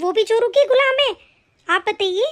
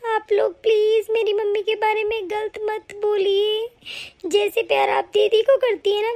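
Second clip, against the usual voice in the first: tearful plea; 2 semitones higher than usual. Acted. Pleading for her own mother.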